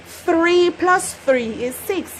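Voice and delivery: slow "Three plus three" with a th sound; "three" as standard English thri. Shown as a demonstration. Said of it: "don't tell me about three plus three".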